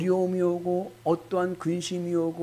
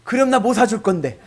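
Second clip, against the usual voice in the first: 아내 흉내; 6 semitones higher, 8 dB louder than usual. Pretend. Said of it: "그랬더니 아내가".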